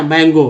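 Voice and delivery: मैंगो said as one clear word; मैंगो pronounced plainly as a word; word modelled. Shown as a demonstration. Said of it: "तो मैंगो है ना".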